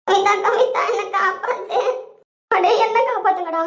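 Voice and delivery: playful cry for help. Acted. Calling friend for rescue.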